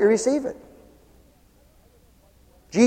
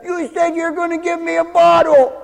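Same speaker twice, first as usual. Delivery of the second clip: put-on demanding kid; 6 semitones higher than usual. Child demanding the promised bottle from a parent, mock high kid voice. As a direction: mimic a small child insisting on what was promised, pitched up. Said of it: "Doesn't the kid say that?".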